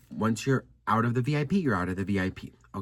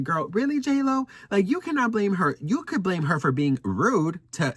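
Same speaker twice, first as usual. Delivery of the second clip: put-on higher, incredulous girl-really comeback; mock addressing critics, higher and incredulous; sassy retort; 6 semitones higher than usual. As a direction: scold the blamers with sass. Mock talking to J Lo blamers.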